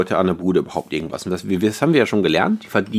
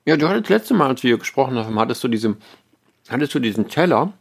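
talking with a mouth full of candy; words round a bite of gummy sweets; chewing while talking; 2 semitones higher than usual. Real, not acted. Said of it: "dass ich mit vollem Mund wieder spreche".

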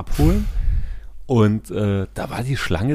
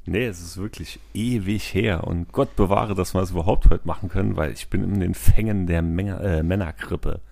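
sick, stuffy voice with a cold; man flu. Real, not acted. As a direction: speak with a cold. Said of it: "hört's auch noch ein bisschen".

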